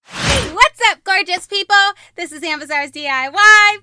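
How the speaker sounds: loud, high intro greeting; youtuber intro. Real, not acted. Vlogger greeting her viewers, loud upbeat intro. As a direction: pump up the channel welcome.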